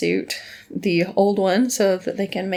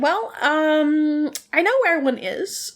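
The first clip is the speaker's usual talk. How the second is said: villain voice; 7 semitones higher than usual. Retold or imitated. Villain quote, high, far.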